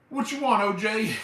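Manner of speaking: high, loud mocking Chop Top voice; imitating Chop Top. Streamer quoting Chop Top's gun scene, high mocking yell. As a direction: screech it like the crazed Chop Top. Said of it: "he goes".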